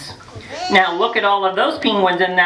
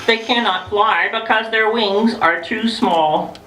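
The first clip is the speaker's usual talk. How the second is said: storybook reading; slower than usual. Acted. Reading book to children.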